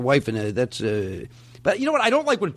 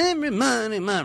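mock singer mumble; 6 semitones higher than usual. Shown as a demonstration. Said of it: "right in that area there".

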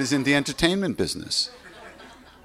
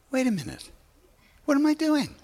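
startled realization; faster than usual. Retold or imitated. Sudden realization mid-movie.

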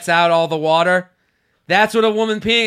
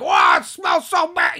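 mock disgusted; 11 semitones higher, 4 dB louder than usual. Mock disgusted coworker quote.

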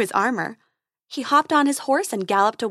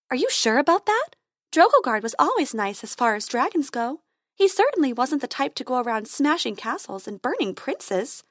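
worried fairy voice; 3 semitones higher than usual. Acted.

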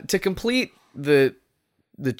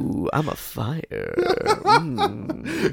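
fiery voice; 11 semitones higher, much slower than usual. Pretend. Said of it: "I'm being fiery".

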